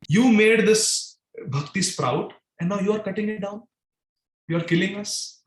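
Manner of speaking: a touch of sarcasm, mild reproachful teasing; sarcastic. Acted. Gopis calling Krishna a heartless gardener, lightly sarcastic. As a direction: praise turning into a mild accusation. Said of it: "And the gopis are saying sarcastically".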